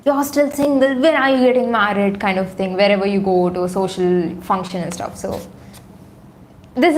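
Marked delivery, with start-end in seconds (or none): 0.0-2.2 lightly mocking nosy auntie. Typical auntie needling someone at a social function, mildly mocking. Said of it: "like, mocking tone, like".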